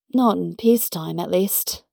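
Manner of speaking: lightly put-on British voice for Peggy; vaguely British accent. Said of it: "I can do one vaguely British accent".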